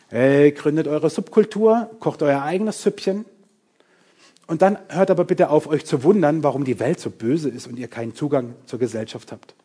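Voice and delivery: mock Jesus; mockingly voices Jesus; caricature. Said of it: "Ich karikiere bewusst". (ironisch karikierend)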